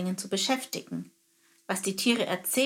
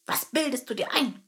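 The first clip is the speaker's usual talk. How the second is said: higher indignant soldier voice; scoffing termite captain; 4 semitones higher than usual. Acted. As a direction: put the nosy bird in his place.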